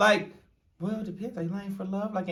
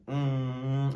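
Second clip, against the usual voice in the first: resting mean face; 6 semitones lower, 6 dB quieter than usual. Shown as a demonstration. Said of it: "that was my resting mean face".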